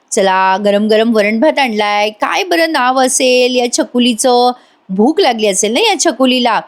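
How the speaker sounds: put-on slow, sweet coaxing to a little girl; sweet talk. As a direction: lightly coo it like feeding a small child. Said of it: "गोड गोड बोलून म्हणते". (गोड गोड, सावकाश लहान मुलीशी बोलणं)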